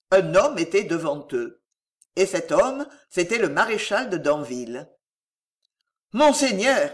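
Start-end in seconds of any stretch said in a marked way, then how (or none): 6.1-6.9 high, loud startled cry; acted shocked outcry. A narrator's reading. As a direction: exclaim as you drop to your knees. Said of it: "s'écria Gilles qui tomba à genoux".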